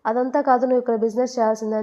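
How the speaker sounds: lightly acted grandfather putting his foot down; serious insistence. Grandfather insists she must do business here, mildly stern.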